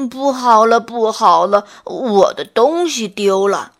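a flustered bear calling out for help; anxious clamoring. A narrator's reading. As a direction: bear shouting to the animals that he lost something. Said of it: "笨熊着急地嚷嚷着".

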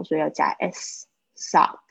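sock said slowly and clearly; slow clear word. Shown as a demonstration. Teacher slowly models sock for students. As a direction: hold sock out for the class.

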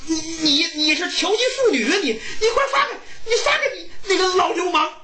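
villagers shouting him down; indignant neighbors yelling at the fortune teller; angry villagers. Acted. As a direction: scold the old man as a crowd. Angry villagers scold Jiang.

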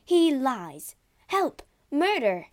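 high, loud calls for help; alarmed outcry. A narrator's reading. Maid raises the alarm over murder, crying out. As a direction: cry out to summon anyone near.

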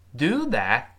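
"do that" with the final t held silent; teacher's model "do that", t swallowed; unreleased t. Shown as a demonstration. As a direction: stop "that" on the tongue, no t release. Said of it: "最后那个t依然是失去爆破".

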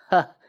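short scornful "heh"; dry derisive scoff; mocking cold laugh. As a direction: let out one cold sneering huff. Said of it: "一声嘲讽的冷笑".

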